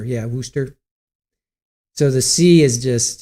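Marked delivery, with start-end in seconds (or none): 0.0-0.7 "Worcester" said as "woo-ster", no middle syllables; local Worcester. Shown as a demonstration. Massachusetts local correcting a chatter, "Worcester" as "woo-ster". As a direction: clip "Worcester" down to two sounds, "woo-stuh". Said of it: "the C E is just completely gone".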